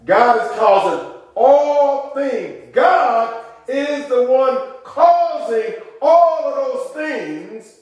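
full-force gospel preaching; fiery preaching. Acted. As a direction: whoop it up to the congregation.

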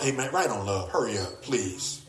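quiet, low, casual urging; soft aside. Retold or imitated. The Lord softly urging the apostle, quiet. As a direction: toss it off softly like the Lord nudging Paul.

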